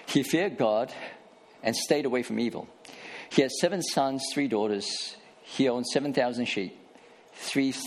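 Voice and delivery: measured, deliberate Bible reading; scripture reading. Acted. Pastor reading Job to the congregation, measured scripture reading. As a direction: read the passage aloud to the church, unhurried.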